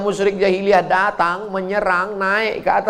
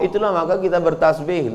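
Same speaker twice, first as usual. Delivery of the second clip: ordinary talk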